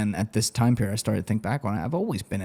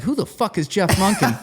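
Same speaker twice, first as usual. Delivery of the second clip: laughing disbelief; 9 semitones higher, 4 dB louder than usual. Retold or imitated. Retold bewildered reaction, laughing.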